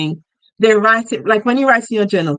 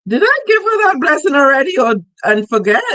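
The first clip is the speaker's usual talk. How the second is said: God wondering; 5 semitones higher than usual. Acted. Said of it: "I have a vision of God going".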